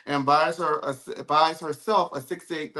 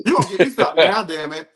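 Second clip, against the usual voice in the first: whiny daughter; 2 semitones higher, 7 dB louder, faster than usual. Retold or imitated. Voicing daughter Porter demanding gifts.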